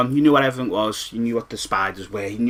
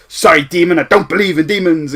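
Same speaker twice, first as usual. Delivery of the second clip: put-on brave kid shouting; 5 semitones higher, 10 dB louder than usual. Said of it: "and he goes".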